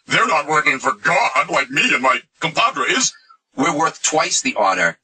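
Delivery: lightly mock a self-important speaker; mock Paul voice. Acting out Paul's self-serving claim.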